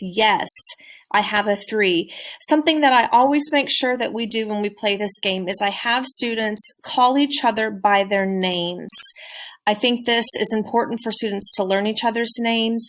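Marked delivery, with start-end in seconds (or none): 0.0-2.1 declarative tune settling on the word three. A teacher models an answer in a card game for students; declarative statement tone. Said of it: "practice using a declarative sentence".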